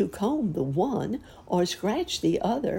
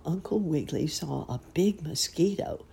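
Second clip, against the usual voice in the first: usual speaking voice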